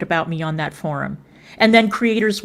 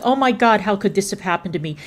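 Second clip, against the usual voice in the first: mock surprise; faster than usual. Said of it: "with surprised Pikachu face like".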